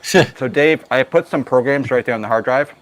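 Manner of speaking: speaking through a mouthful of food; mouth full. Real, not acted. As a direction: still chewing while talking. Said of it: "I got a mouthful of food".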